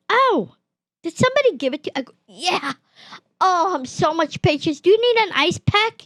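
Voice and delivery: high, lightly voiced fussing nurse tone; a hint of a syrupy doctor, voice lifted high; sugary doctor. Doctor cooing over the patient, lightly mocked and high.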